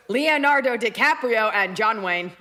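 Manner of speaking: slow mock robot; imitated robot, deliberately slow; girl robot. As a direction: draw each word out like a robot. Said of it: "it's like a girl robot".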